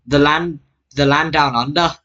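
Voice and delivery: put-on amateur try at an Australian accent; attempted Australian accent. British gamer imitating Australians for viewers, badly faked Australian accent. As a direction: have another go at sounding Australian. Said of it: "I'm gonna try again".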